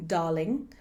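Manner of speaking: posh British with a softened R; posh British accent. Shown as a demonstration. Teacher giving practice words for the accent, posh British accent. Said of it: "more posh accent".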